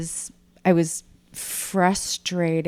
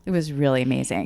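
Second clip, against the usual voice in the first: ordinary talk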